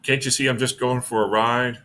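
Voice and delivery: lightly voiced old woman; a hint of a cranky old woman; old woman apocalypse voice. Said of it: "in her old woman apocalypse voice".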